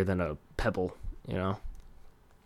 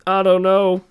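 much higher and louder, a strained whine; exasperated cry; 11 semitones higher, 14 dB louder than usual. Acted. Stuck needing the restroom mid-podcast, high exasperated wail. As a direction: throw up your hands, wailing it. Exasperated repeat of the same words.

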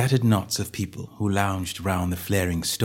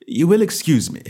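bland; 8 semitones higher, 4 dB louder than usual. Acted. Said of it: "said Holmes blandly".

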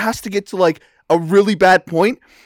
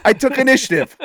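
proud repeat; 6 semitones higher than usual. Shown as a demonstration. Repeats line for comic emphasis.

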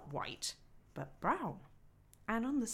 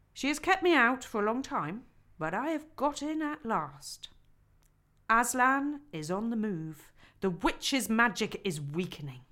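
a hint of a grand old man arriving; lightly voiced Father Christmas; 2 semitones higher, 5 dB louder than usual.

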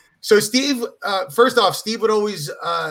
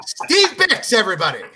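mock emcee sign-off; 2 semitones higher than usual. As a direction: present the comic to the crowd. Mock sign-off after the joke.

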